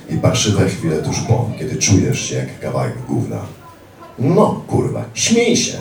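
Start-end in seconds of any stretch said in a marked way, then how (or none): 4.2-5.8 high, loud mocking taunt; high shouted sneer of a thug; angry attacker. Attacker yells at narrator.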